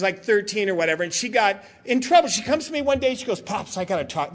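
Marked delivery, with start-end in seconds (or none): 3.4-4.3 sheepish daughter. Retold or imitated. Teen daughter confessing to dad.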